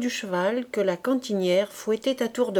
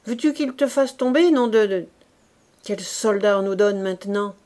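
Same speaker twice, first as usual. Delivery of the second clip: louder, sputtering irritation; exasperated; 4 dB louder than usual. Acted. Corporal to clumsy Fabrice, sputtering exasperation. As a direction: fume at the useless recruit.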